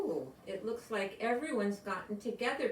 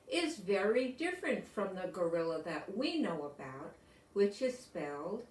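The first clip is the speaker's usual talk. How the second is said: storybook reading. A narrator's reading. Reads picture book to class.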